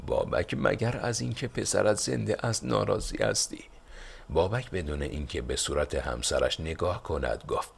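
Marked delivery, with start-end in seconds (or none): 0.1-3.6 higher voiced wife, pushing back; lightly voiced wife protesting. A narrator's reading. Wife objecting to Babak's reaction, higher pitched protest. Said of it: "بانو اعتراض کنان گفت".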